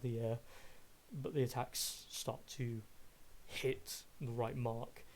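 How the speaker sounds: measured descriptive scene narration; game master narration. Acted. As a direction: paint the fight for the players, steady and vivid.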